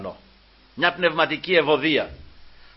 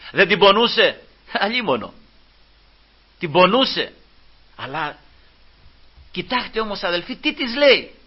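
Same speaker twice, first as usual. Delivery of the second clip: raised, questioning preacher's voice; impassioned preaching; 7 semitones higher, 5 dB louder than usual. Acted. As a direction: tell it with mounting urgency to the congregation.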